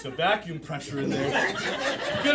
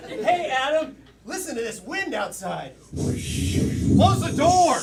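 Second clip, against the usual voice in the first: calling out; 7 semitones higher, 5 dB louder, slower than usual. Acted. Calling out over the wind.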